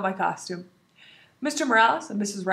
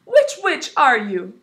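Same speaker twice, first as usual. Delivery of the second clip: spooky question; 5 semitones higher, 9 dB louder, slower than usual. Acted. Skeleton asks riddle.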